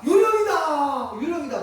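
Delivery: high, drawn-out frightened shout; terrified cry. Acted. Disciples on the boat cry out in fear at the ghost.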